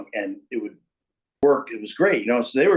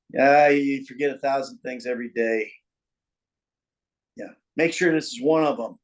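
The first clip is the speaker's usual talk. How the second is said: a limp throwaway take of the line; deliberately bad read. Shown as a demonstration. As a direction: read the line badly on purpose, half-hearted. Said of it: "So I did it bad".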